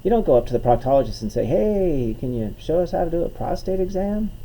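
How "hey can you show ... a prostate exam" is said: higher, breezy imitation of a nosy asker; put-on chummy asking, pitched up; mock casual request. Comedian mimicking a request to a proctologist, mock chummy.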